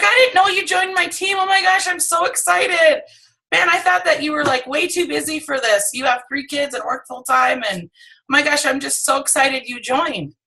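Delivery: can't contain the delight she joined; thrilled gushing. Retold or imitated. Lisa telling the friend she's thrilled she joined, gushing high. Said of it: "I'm like".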